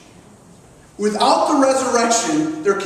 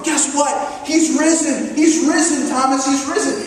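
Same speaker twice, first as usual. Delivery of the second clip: higher, emphatic good-news announcement; excited disciples; 3 semitones higher than usual. Retold or imitated. Disciples telling Thomas the news, excited and emphatic. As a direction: burst out with excited, insistent news. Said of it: "they just were excited and they were emphatic".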